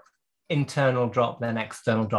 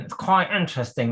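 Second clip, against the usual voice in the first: higher, keen nerdy enthusiast voice; 4 semitones higher than usual. Shown as a demonstration. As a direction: gush it like an eager nerd. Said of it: "as my nerdy voice".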